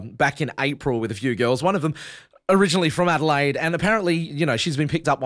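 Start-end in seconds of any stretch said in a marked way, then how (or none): none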